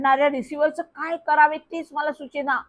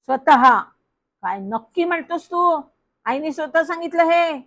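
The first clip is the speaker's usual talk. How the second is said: astonished; 4 semitones higher, 3 dB louder than usual. Acted. Aunt astonished by the reply.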